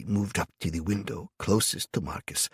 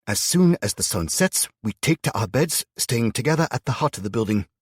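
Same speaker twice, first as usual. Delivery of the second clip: put-on old woman voice; 7 semitones higher, 7 dB louder than usual. Old woman explains, voiced high.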